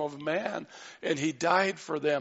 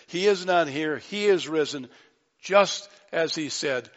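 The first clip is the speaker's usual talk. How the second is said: louder, jubilant announcement; excited angel; 2 semitones higher, 4 dB louder than usual. Acted. Angel telling the women at the tomb, excited and loud. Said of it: "He is so excited".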